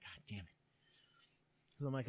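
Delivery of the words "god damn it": whispered, resigned swear; retold grumble, nearly voiceless; muttered curse. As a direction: curse softly under your breath. Muttered reaction to the mounting cost.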